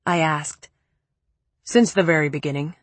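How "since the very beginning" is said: a hint of a low, cold man; cool, lower man's voice; lightly lower male voice. Preppy's cold voice.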